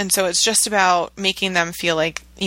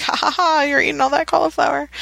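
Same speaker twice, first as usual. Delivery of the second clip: mock gloating; 7 semitones higher than usual. Mom gloats in her head.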